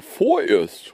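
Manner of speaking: weighty, slowed-down "vorerst"; stress on vorerst. Real, not acted. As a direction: stretch out "vorerst", first syllable leaned on hard. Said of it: "ich betone vorerst".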